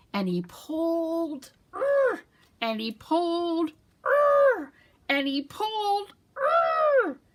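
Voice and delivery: strained effortful grunts building up; straining pulls. Acted. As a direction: heave harder each time. Bunny straining to pull.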